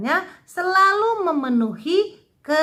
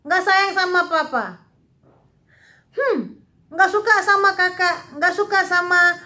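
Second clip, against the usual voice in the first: mock sulky child whining, a touch higher; 4 semitones higher than usual. Teacher to kids, mimicking a pouting child lightly. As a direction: play the pouting kid, half-hearted. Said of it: "Sukanya begini".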